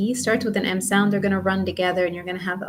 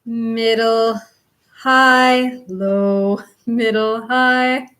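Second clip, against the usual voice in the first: pitch steps; 2 semitones higher, 3 dB louder, slower than usual. Shown as a demonstration. Teacher singing out the pitch steps of the chant. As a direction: mark each pitch level as you name it. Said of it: "one step in pitch".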